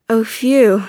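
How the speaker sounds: relieved sigh. Acted. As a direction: let out a relieved phew. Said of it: "I sighed".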